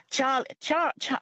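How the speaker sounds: halting, abandoned try at a Scottish accent; attempted Scottish accent. Shown as a demonstration. Caller tries a show line on request, hesitant Scottish accent. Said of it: "can you give us some Scottish".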